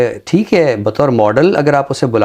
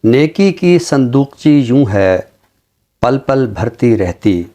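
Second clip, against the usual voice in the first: slow, measured ghazal recital with long pauses; poem recitation; slower than usual. Acted. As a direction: savour each line of the couplet, unhurried. (धीमी, ठहरी हुई ग़ज़ल की अदायगी)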